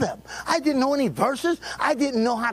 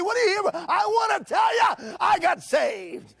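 quoted shout; 10 semitones higher than usual. Retold or imitated. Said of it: "told everybody".

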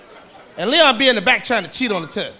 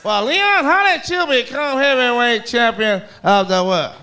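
Howard Cosell interviewer; slower than usual. Retold or imitated. Cosell interviewing Leon on TV, slow announcer mimic. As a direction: lightly do the TV interviewer. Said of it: "he can't talk".

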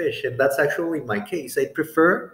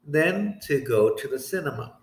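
slow model sentence. Shown as a demonstration. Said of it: "with prefer".

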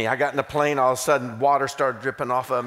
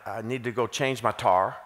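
Southern drawl; 3 semitones lower than usual. Shown as a demonstration. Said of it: "tar can be used for three different items".

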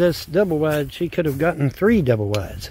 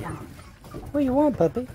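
high pet voice; 11 semitones higher, 4 dB quieter than usual. Real, not acted. Man coaxing a puppy over, very high slow baby talk.

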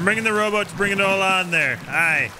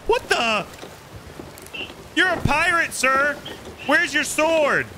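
mock scolding; 11 semitones higher than usual. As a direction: scold him like a shocked pirate captain. Mock scolding pirate, high voice.

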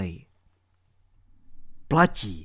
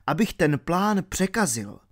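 plain reading voice

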